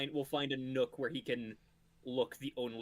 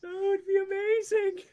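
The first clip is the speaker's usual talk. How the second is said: high, slow, loud delight; excited; 10 dB louder, slower than usual. Real, not acted. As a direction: gush it out in delight. Delighted at the glitch idea.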